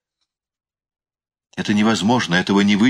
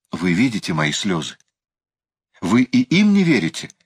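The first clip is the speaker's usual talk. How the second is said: exclaiming. A narrator's reading. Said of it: "воскликнула она".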